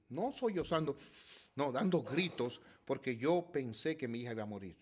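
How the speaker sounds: usual speaking voice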